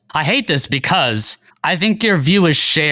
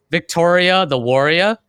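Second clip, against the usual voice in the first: Boston accent, warrior with r dropped, wor-ee-ah; Boston accent with a rising warrior; 5 semitones higher, 3 dB louder than usual. Shown as a demonstration. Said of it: "like a Boston accent".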